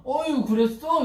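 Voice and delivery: put-on gently hushing a hurt child; soothing comfort. God comforting a crying child, slow and consoling. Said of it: "이러면서 안아주시는 거예요".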